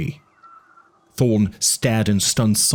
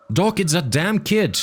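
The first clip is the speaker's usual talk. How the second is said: exasperated Eddie; 9 semitones higher than usual. A narrator's reading. Eddie's voice in audiobook.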